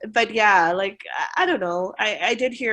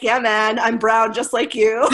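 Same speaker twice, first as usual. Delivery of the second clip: laughing retort; 3 semitones higher, 6 dB louder than usual. Retold or imitated.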